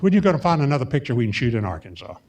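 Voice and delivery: fast, clipped British accent, imitating a studio boss. Producer imitating his British studio head asking for another Arkansas picture, mild clipped British accent. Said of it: "in that clipped British accent".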